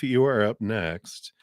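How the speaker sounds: whispered, slow. Real, not acted. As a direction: breathe it out in a whisper. Calling next reader.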